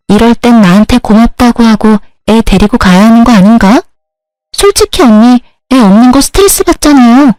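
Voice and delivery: smug and entitled, demanding thanks; mild insolent whine; rude sister-in-law. Acted. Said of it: "그 싸가지 없는 년으로 돌아갔더군요".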